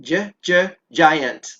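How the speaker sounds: j, j, giant with the first sound repeated. Shown as a demonstration. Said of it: "Can you say giant?".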